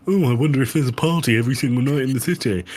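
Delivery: fast, mocking singsong wonder; sarcastic mock musing. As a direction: mimic her naive line with scorn. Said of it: "mocking the character's naive thought".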